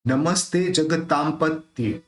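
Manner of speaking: slow, measured chant of the verse opening; teacher modelling a Sanskrit line; slow recitation. Shown as a demonstration. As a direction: recite it slowly for students to repeat. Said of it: "ये जो ऊपर रेफ है".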